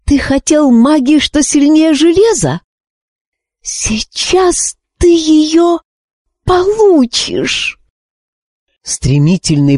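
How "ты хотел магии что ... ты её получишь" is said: high, slow, triumphant threat; menacing. A narrator's reading. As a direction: savour each word slowly. Threatening the witch king.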